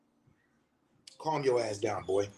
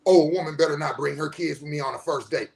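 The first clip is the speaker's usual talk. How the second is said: lower, fast mock dumb-guy voice; 6 semitones lower, faster than usual. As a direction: sneer it out like a clueless man, fast. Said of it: "there's some dumbass talks about this shit".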